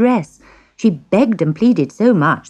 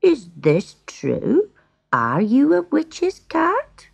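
gentle; 9 semitones higher, much slower than usual. A narrator's reading. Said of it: "spoke to him gently".

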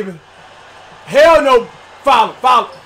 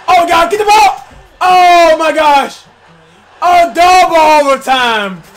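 frantic shout; 3 semitones higher, 6 dB louder than usual. Real, not acted. Frantic late-game moment.

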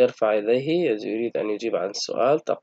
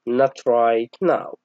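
very slow, spelled-out refusal; drawn-out polite refusal for pupils; slow model reading; much slower than usual. Shown as a demonstration. Teacher voicing the boy's refusal, slow. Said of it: "إذن يقول له".

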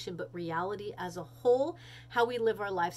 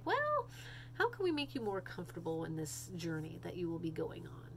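gentle doctor; 3 semitones lower, 6 dB quieter than usual. Retold or imitated. Doctor voiced gently to dying mother.

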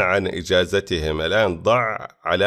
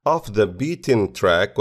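"Off the beaten track" said slowly, each word set apart for learners; slow teaching demo; slower than usual. Shown as a demonstration. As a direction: present "Off the beaten track" slowly as a new phrase. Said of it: "وتعني not visited by many tourists".

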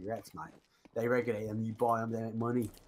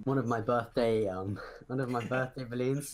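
helium voice. Real, not acted. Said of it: "I sound like a transgender from Birmingham".

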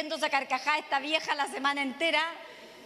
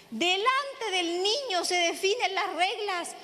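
slow emphasis; 4 semitones higher, slower than usual. Real, not acted. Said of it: "emphatic slow summary".

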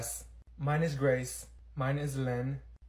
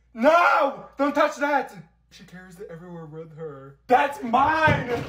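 panicked shout; 6 semitones higher, 9 dB louder, slower than usual. Acted. Someone touches her spray.

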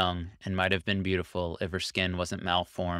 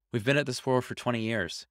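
hoarse and longing; 5 semitones higher than usual. Acted. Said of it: "voice hoarse but still full of longing".

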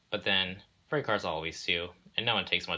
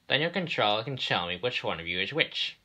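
railway boss; 4 semitones higher than usual. Acted.

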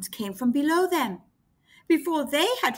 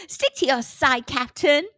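laughing; 4 dB louder than usual. Acted. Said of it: "laughed Rossi".

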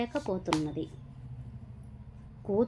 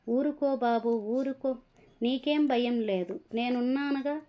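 put-on higher, gentle hush for a frightened child; soothing; 4 semitones higher than usual. Grandfather soothes the crying child, gently and higher. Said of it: "ఓదారుస్తున్నాడు".

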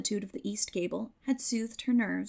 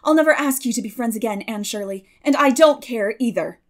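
put-on loud, hurt, stung boy; a young man's loud angry retort; 9 dB louder than usual. A narrator's reading. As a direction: fling the words back at her. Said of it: "with an angry color in his cheeks".

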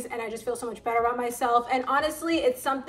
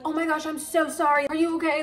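imitating a woman's higher, anxious apology; mock-flustered, raised pitch on the sorry; 4 semitones higher than usual. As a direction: apologize in a mild retold fluster. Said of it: "she's, like, freaking out".

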